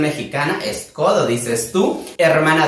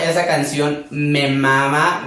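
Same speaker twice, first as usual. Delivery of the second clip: normal talking voice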